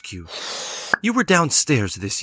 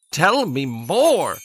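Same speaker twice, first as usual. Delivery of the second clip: stretched out, hungry for more; slow eager plea; slower than usual. Acted. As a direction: draw it out slowly.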